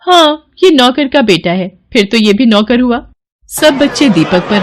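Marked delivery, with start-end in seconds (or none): 0.0-3.0 mocking taunt. Kids mock the servant's son.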